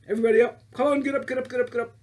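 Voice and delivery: loud cheery get-up call; rousing call. Real, not acted. Teacher calling the class to stand up, loud and cheery. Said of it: "calling kids to stand".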